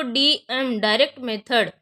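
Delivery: slow and deliberate, stressing डीएम; slow, emphatic. Shown as a demonstration. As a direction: say डीएम डायरेक्ट मेथड slowly so students note it. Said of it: "आप कुछ और मत पढ़िएगा इसको". (धीरे और ज़ोर देकर)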